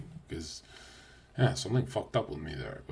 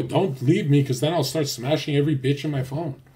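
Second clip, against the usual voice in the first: louder, higher mock plea; mock pleading; 6 semitones higher, 8 dB louder than usual. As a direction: ham up begging her to stay. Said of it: "And I go".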